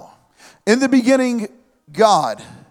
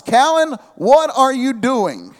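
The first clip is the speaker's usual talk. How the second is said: yelling for his son; 3 semitones higher than usual. Retold or imitated. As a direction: call the boy's name across the yard. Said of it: "I yell out the house".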